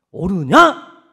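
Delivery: loud, sharp divine question; God sternly confronting a prophet; stern challenge. Acted. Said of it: "이렇게 물어봐요".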